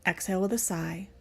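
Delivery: measured breathing cues with long pauses; guided breathwork. Acted. Teacher leading the class through sigh breaths, guided breathwork. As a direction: pace each cue to a breath.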